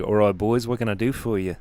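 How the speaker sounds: lightly voiced Australian accent; Australian publican taking an order; Australian bartender. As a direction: greet the lads like an Australian barman. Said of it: "the first week was an Australian bartender".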